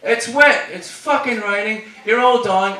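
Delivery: high, complaining convict voice; one-legged convict. Acted. One-legged convict answering the officer, high mock complaint. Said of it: "the one-legged convict's like".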